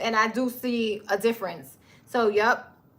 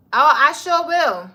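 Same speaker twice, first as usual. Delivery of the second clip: eager; 4 semitones higher, 5 dB louder than usual. Real, not acted. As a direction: promise it with big enthusiasm. Eager reply to chat.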